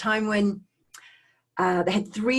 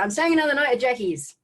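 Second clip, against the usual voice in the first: retold excited kid; 6 semitones higher, 3 dB louder than usual. Re-enacts phoning mum as kid.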